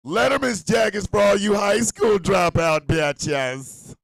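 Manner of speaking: hammed-up ad insult; slow shouted roast. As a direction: bark it out slowly like a sales pitch. Mock ad roast.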